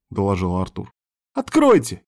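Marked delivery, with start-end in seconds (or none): 1.3-2.0 high, loud begging cry; frantic girl's plea; desperate pleading. A narrator's reading. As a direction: cry out to be let through. Girl keeps begging at hatch.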